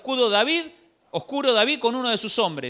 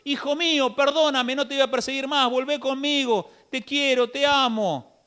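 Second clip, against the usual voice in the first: pleading king; 4 semitones higher than usual. Acted. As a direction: beg your son to come home. Saul voiced pleading with David. (Saúl suplica a David que vuelva, tierno)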